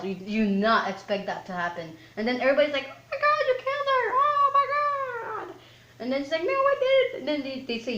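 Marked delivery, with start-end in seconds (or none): 2.9-5.5 very high-pitched imitation of a panicked crowd; mock horror. Mimicking everybody's horrified reaction. 6.4-7.2 very high squeaky protest; hammed-up high-voiced protest; mock panicked denial. Mimicking her denial of the killing.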